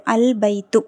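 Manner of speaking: "அல் பைத்து" with a held, audible L; teacher's careful "அல் பைத்து", L fully sounded; lam pronounced. Shown as a demonstration. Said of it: "லாம் உச்சரிக்கப்படுது".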